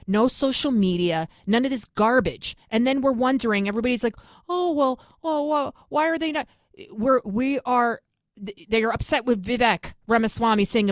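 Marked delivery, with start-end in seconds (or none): 4.5-6.5 mocking whine. Mocking what everybody says.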